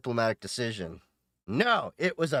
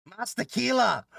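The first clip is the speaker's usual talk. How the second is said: higher, slow mock cheer for tequila; mock party shout; 10 semitones higher, 3 dB louder than usual. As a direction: ham up a party cry. Jokey Spanish exclamation.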